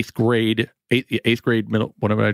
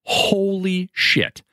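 awed disbelief; 8 semitones higher, much slower than usual. Real, not acted. Stunned at the film list.

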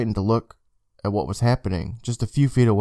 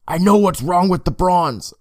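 with conviction; 8 semitones higher, 4 dB louder than usual. Acted. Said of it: "Emma said with conviction".

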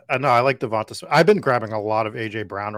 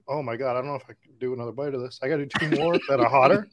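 fast, rushed through pepper burn; mouth burning from spicy food; much faster than usual. Real, not acted. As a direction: blurt it out while mouth burns. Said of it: "My eyes are watering".

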